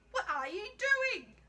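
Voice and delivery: a big nun catching a thief in the act; stern nun. A narrator's reading. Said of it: "asked the nun".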